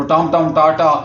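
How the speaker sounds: टमाटर broken into टम टम and टाटा; broken baby words. Retold or imitated. Father repeats his toddler's broken tries, imitated baby pronunciation. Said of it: "अभी चूंकि टूटे फूटे बोलते हैं".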